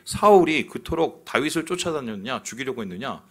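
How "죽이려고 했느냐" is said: ordinary delivery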